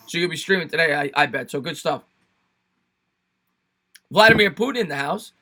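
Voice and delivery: ordinary talk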